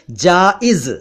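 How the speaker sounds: जाइज with j first, z last; careful pronunciation. Shown as a demonstration. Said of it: "इसका उच्चारण ध्यान से सुनिए". (जाइज का साफ़ उच्चारण, पहले ज फिर ज़)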